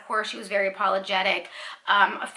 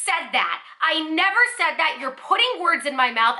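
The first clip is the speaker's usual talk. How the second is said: retold indignant protest, higher on "never"; losing it without screaming; 5 semitones higher than usual. Customer rejects words put in her mouth, losing it without screaming. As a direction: firmly deny it, stopping short of a scream. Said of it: "That's when I lose it".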